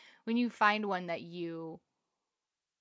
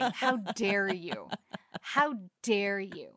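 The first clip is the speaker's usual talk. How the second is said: mock indignation; slower than usual. Mock outrage at Netflix.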